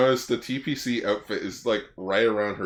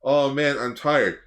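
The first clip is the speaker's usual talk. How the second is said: whiny complaining; 2 semitones higher, 4 dB louder, slower than usual. Retold or imitated. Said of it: "keep complaining".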